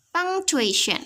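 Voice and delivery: Punctuation. starting high on punk, then falling; stress on punk. Shown as a demonstration. Teacher showing students the stress on punk in Punctuation. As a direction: hit punk hard in Punctuation. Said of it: "Saya tekan di punk".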